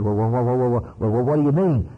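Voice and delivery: flustered stammer on well; stuttering fellow. Retold or imitated. Man flustered by Mac's question, stammering. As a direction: hem and haw, caught out. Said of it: "stuttered around a little while".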